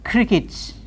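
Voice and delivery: "cricket" as crick-it; "cricket" with reduced final syllable; cricket ending in it. Shown as a demonstration. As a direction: say "cricket", weak it end. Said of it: "C R I C K E T".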